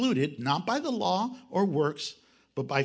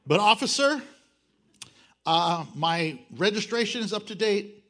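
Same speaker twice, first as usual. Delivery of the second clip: pleading speeder. Retold or imitated. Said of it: "I get pulled over".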